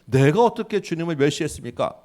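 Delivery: a touch of bold, defiant arguing; lightly voiced priests insisting they did nothing wrong; confident protest. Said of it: "당당하게 따지는 거예요".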